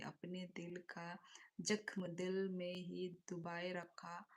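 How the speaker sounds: slow, hushed poem recital; shayari recital. Acted. Streamer recites a sad couplet to chat, slow and hushed.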